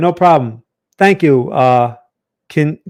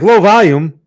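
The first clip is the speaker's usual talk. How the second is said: louder, mock-baffled echo; puzzled question; 3 semitones higher, 7 dB louder than usual. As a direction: repeat it as if baffled. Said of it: "I'm like".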